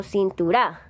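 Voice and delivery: "cintura" with the final RA stressed, cintu-RÁ; misplaced stress on last syllable. Shown as a demonstration. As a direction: push the accent onto the end of "cintura". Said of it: "en donde lleva el acento".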